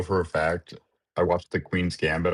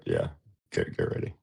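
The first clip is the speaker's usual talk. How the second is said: talking while chewing peanuts; eating peanuts; 12 semitones lower, 4 dB quieter than usual. Real, not acted. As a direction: mouth full of peanuts. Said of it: "I'm eating peanuts".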